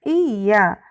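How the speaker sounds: slow, letter by letter; name each letter separately; spelled out. Shown as a demonstration. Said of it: "na realidade". (soletrando devagar, letra por letra)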